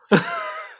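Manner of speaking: very high, voiceless burst of laughter. Real, not acted. Player laughing at own mock argument, high laugh. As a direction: crack up mid-protest.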